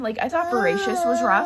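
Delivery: fighting back real tears mid-sentence; choking up. Real, not acted. Reviewer crying over a book she loves, voice breaking. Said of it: "I'm really emotional".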